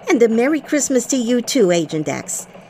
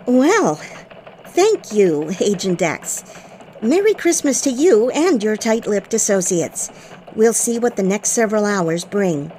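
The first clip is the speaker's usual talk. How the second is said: bright newsroom anchor read; elf news reporter. Acted.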